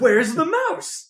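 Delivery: slow, drawn-out, insistent question; mock exasperated demand. Repeats his demand at the film.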